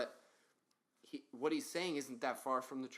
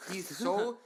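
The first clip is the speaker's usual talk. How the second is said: with hiccups; 9 semitones higher, 9 dB louder than usual. Real, not acted. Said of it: "Excuse me for the hiccups".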